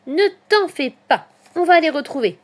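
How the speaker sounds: high, loud little hedgehog reassurance; rally a worried friend, voice up; exclaiming. A narrator's reading. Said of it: "s'exclame Petit Hérisson". (exclamation rassurante, aiguë et forte)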